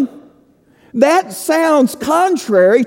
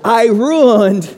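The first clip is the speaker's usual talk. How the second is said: laughing. Real, not acted.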